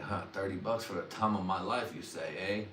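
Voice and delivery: soft, musing to himself; a quiet tempted murmur; hushed tempted muse. Retold or imitated. Tempted by a dealer's offer, soft and musing. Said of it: "when I was like".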